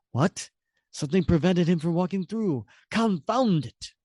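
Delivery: lightly voiced villain, mildly annoyed; a touch of irritation, slowing on confound it; Red Skull, puzzled. Red Skull sees the controller blocked, mild annoyance.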